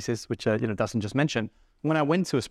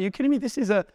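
mock flattering protest; 6 semitones higher than usual. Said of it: "I was like".

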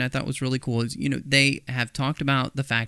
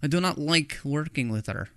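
put-on terrible Russian accent; 3 semitones higher than usual. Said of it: "that's my terrible Russian accent".

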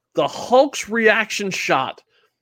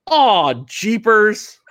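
slow, drawn-out mock dismay; aw jeepers dismay; 3 semitones higher, 4 dB louder, much slower than usual. Hulk seeing the monster, mild dismay. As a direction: let the aw sag like a sheepish cartoon hero. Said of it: "the first one is".

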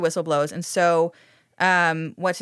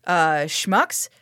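dog voice; slower than usual. Retold or imitated. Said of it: "Littlest Hobo's like".

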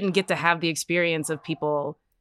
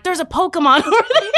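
high, loud, fast mock excitement; imitated excitement; 12 semitones higher, 5 dB louder, faster than usual. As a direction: gush like a thrilled player, laughing. Excited players spotting a Pokemon, imitated.

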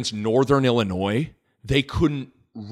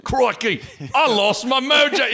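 much higher mock Austin Powers whine; Austin Powers impression; 11 semitones higher than usual. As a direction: camp it up as Austin Powers losing his mojo. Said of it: "Austin Powers, like".

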